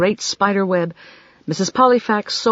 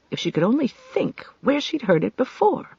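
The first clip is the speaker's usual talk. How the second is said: whisper; 6 semitones higher than usual. A narrator's reading. Her inner thought.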